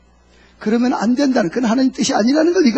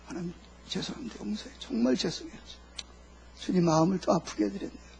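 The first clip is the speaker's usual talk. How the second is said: very hushed, contrite prayer; acted repentance; 2 semitones lower, 14 dB quieter than usual. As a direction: apologise to God almost under the breath. Acts a repentant prayer to God. (속삭이듯 나직이 용서를 비는 연기)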